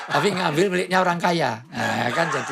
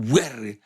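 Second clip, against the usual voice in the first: sudden rough bray; imitated donkey bray; 3 semitones lower than usual. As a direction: burst out like a startling donkey. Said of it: "keluar dan membuat kaget". (tiruan ringkikan keledai mengagetkan)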